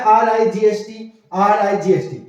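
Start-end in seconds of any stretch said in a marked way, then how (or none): 0.0-1.1 slow spelling out. Shown as a demonstration. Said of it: "देखो spelling भी same है".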